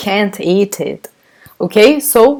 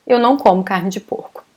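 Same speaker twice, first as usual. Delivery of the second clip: formal version; 3 dB quieter, faster than usual. Shown as a demonstration. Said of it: "This is the formal version".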